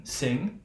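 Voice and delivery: short i then velar nasal in SING; silent final g. Shown as a demonstration. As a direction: SING ending on the ng nasal, no hard g. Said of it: "just gonna be like wing".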